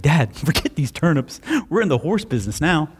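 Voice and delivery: a touch of laughing excitement; a kid gleeful about free horses; excited son. Acted. Son tells dad about the horses, lightly excited.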